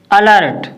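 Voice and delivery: अलर्ट opened with a short "uh"; short "a" opening. Shown as a demonstration. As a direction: say अलर्ट as uh-LERT. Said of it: "इसको क्या पढ़ते हैं". (अलर्ट की शुरुआत छोटे "अ" से)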